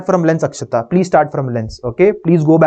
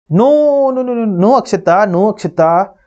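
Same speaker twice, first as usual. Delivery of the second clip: firm no; 4 semitones higher than usual. Real, not acted. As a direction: stop a student's mistake. Teacher corrects student's mistake.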